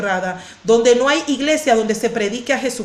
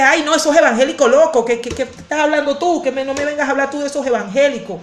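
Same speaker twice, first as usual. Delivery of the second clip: imitated annoyance; 3 semitones higher than usual. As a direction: imitate someone bristling at being preached to. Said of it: "uno le habla de Cristo y se molesta".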